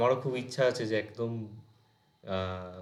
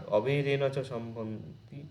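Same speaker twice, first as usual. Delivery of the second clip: verse recitation; slower than usual. Shown as a demonstration. Recites verse line slowly.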